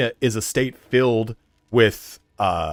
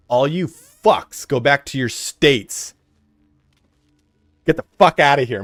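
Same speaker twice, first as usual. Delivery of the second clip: mock rant; 4 semitones higher, 5 dB louder, slower than usual. Ranting at out-of-state transplants.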